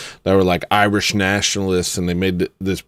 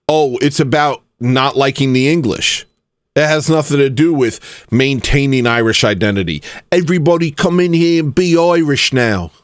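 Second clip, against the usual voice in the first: mock Irish accent, higher and rising at the end; a clumsy, lightly done Irish accent; bad Irish accent; 3 semitones higher than usual. Mocking the band in a bad Irish accent. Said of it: "I know that's not an Irish accent".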